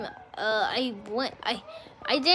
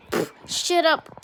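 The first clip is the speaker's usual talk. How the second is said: scoffing, slow and loud brush-off; puff, then a drawn-out shut-down; imitating a dismissive bully; retold dismissal; 6 semitones higher, 6 dB louder, slower than usual.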